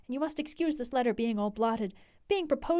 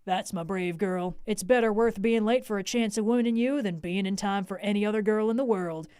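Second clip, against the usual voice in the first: hearty; 5 semitones lower than usual. Acted. Suitor comforts crying Lucy in a lower hearty voice. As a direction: cheer her up heartily. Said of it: "in a hearty way".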